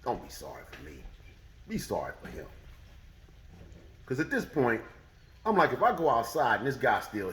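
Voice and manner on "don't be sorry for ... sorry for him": much lower, much softer, menacing; low, cold calm. Retold or imitated. The teller tells the cashier not to apologize, coldly. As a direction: say it dead calm, like a warning. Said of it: "I said".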